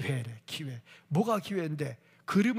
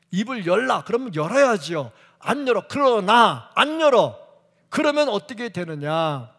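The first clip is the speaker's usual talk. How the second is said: loud, higher, hammering each short line; fiery preaching; 5 semitones higher, 9 dB louder than usual. Acted. Preacher scolding stubborn believers with full-force fire. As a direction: thunder it from the pulpit.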